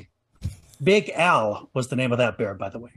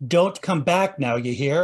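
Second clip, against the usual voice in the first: slow southern drawl; slower than usual. Retold or imitated. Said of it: "he was saying".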